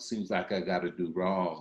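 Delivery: ordinary talk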